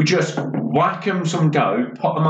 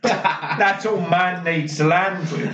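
hard-man brag; 3 semitones higher than usual. Retold or imitated. Hooligan bragging on plane.

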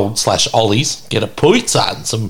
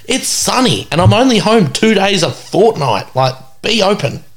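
pleading; 7 semitones higher than usual. Retold or imitated. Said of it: "I'm like".

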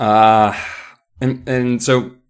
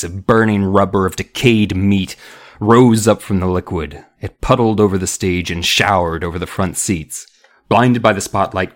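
measured read-aloud narration; story narration; 4 semitones lower than usual. A narrator's reading. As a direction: narrate a suspenseful children's story. Reads the book aloud.

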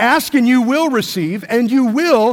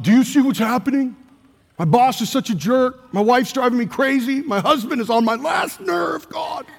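complaining; 4 semitones higher than usual. Retold or imitated. Mimics complaining prayer.

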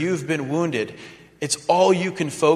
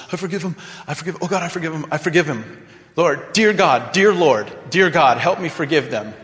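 mock pious prayer. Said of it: "what's coming out of my mouth is".

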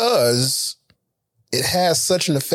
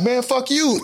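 higher-pitched mock road rage; aggressive horn; 9 semitones higher than usual. Driver answering an aggressive horn, mock angry. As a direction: imitate an offended driver snapping back. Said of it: "the horn is aggressive".

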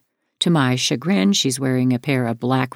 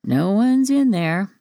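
slow, higher, unbothered drawl; 6 semitones higher, slower than usual. A narrator's reading. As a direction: stretch it out, calm and dismissive.

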